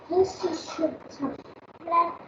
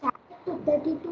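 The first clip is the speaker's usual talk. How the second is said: speaking up; 4 dB louder than usual. Real, not acted. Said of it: "I can't hear you clearly".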